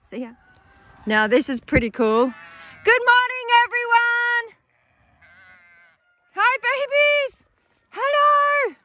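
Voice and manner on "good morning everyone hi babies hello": high, slow cooing greeting. Real, not acted. Farmer greets her lambs in a high cooing voice. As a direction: coo at the lambs like babies.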